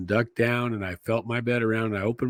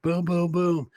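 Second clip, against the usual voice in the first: imitated banging; 7 semitones higher, slower than usual. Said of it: "banged on the accordion door".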